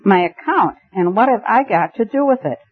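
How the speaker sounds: rising, baffled disbelief; bewildered. Acted. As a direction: voice climbs in confusion. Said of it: "ideas in a vague stampede".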